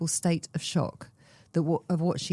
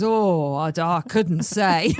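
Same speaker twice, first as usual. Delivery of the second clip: vague mechanic; 5 dB louder, slower than usual. Retold or imitated. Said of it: "I said".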